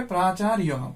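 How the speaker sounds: প্রাচার্যঃ as praa-chaa-ri-ya-ha; Sanskrit-style প্রাচার্যঃ, ending "-riyaha"; Sanskrit pronunciation. Shown as a demonstration. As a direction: sound out প্রাচার্যঃ with "ri-ya" and a voiced final "ha". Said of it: "উচ্চারণটা হবে".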